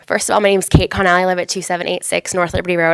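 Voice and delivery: blocked nose from a cold; stuffy nose. Real, not acted. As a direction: speak with a stuffy head cold. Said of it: "I have a little bit of a cold, ... sound a little stuffy".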